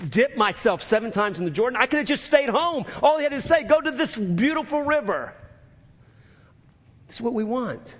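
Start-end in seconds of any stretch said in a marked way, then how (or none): 0.1-5.3 higher, exasperated complaint; indignant Naaman. Retold or imitated. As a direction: whine it like an offended general. Preacher voicing indignant Naaman.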